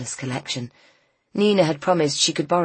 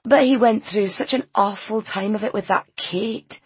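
higher-pitched character voice, complaining; higher voice, full of grievance; aggrieved local woman; 5 semitones higher than usual. Acted. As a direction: play the gossiping village customer. Voices customer Leslie in dialogue.

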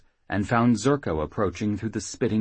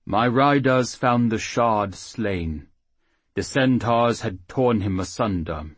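gentle halfling priest; 2 semitones higher, 4 dB louder than usual. Acted. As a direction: speak as the kindly little priest. Priest reports the dead.

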